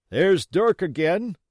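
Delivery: loud, high, slow warning; a pirate hearing the signal, loud. Acted. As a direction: warn the others. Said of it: "said one".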